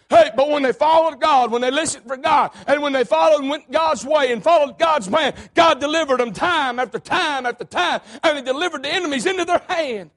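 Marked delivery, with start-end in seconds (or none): 0.1-8.0 preaching build. Acted. Preaching about following God.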